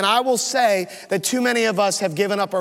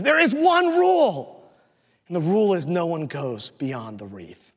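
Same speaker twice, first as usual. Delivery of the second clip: stern chief father; 2 semitones lower than usual. Acted. Chief father states the rule.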